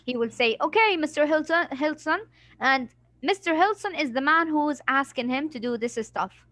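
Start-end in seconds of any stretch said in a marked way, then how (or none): 0.6-2.2 put-on lightly raised young boy voice. Shown as a demonstration. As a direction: say it like an eager little boy. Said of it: "change your tone to be a boy".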